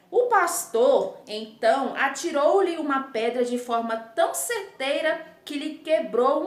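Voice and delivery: measured, lifted storytelling for pupils; teacher's careful story narration; fable read aloud. Acted. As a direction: read a short fable clearly to children.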